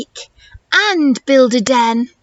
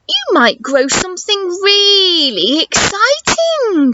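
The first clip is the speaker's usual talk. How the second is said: mum's voice; 4 semitones higher, slower than usual. Acted. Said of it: "she says".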